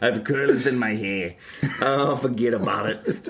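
hammed-up Brooklyn old-lady accent; comic Jewish Brooklyn matron's accent; elderly New York woman. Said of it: "like, an elderly New York woman".

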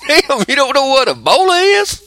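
high, loud disbelieving question; incredulous. Retold or imitated. Producer questioning a clueless sports host, incredulous. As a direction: ask it as if it can't be true. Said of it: "I'm like".

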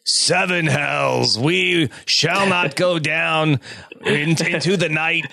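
rally the troops like a king; booming warrior king. Pretend. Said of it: "some sort of rousing speech".

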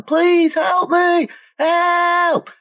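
high, slow, desperate scream; drowning woman yelling. Acted. Game master voicing the drowning woman, high and desperate. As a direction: drag out the plea like you're drowning. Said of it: "You could hear the yelling".

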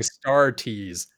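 "Star Tees" said as two words. Shown as a demonstration. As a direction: split "Star Tees" like a T-shirt. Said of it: "It sounds like you're saying Star Tees".

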